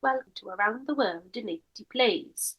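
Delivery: understated Welsh lilt; Welsh accent. Shown as a demonstration. Co-host showing a better version, light Welsh accent. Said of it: "my Welsh accent's quite good".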